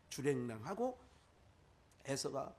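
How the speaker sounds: ordinary talk, nothing marked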